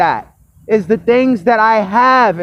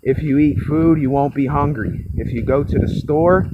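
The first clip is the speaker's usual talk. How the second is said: low, soft, understated everyday talk; barely projected, low private murmur; real tone of voice; 6 semitones lower, 5 dB quieter, faster than usual. Shown as a demonstration. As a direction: drop the projection, speak low and quiet. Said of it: "I really talk like this".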